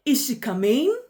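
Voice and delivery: eager question, rising sharply on "coming"; excited rising intonation. Shown as a demonstration. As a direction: lift "coming" high as if excited. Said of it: "It can also signify incitement".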